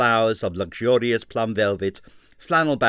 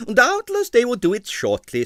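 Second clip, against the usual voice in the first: consoling; 13 semitones higher, 6 dB louder than usual. Acted. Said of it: "said Stroganoff consolingly".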